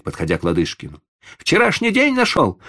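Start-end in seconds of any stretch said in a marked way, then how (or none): 1.4-2.6 high, loud, sarcastic jab; rude mockery. Boy mocking the old man rudely. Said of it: "грубо отозвался мальчик".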